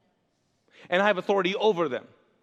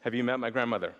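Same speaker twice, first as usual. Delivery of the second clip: offended Jewish listener; 7 semitones lower, 4 dB quieter, faster than usual. Retold or imitated. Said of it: "you're like".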